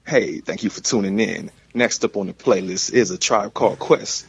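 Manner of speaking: lightly put-on radio DJ voice; a hint of an on-air announcer. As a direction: introduce it like a radio host, smooth and even. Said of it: "That radio voice".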